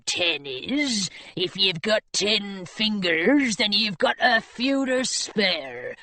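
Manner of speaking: low, slow sinister pirate; menacing pirate. Acted. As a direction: relish the threat, slow. Menacing gold-toothed pirate.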